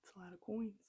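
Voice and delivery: soft whispered aside. Real, not acted. Narrator's aside about the coins, whispered. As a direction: whisper it to the listener. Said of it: "whispered aside".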